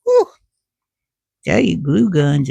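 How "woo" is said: yelp of pain. Real, not acted. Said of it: "How'd that piece of glue get me?".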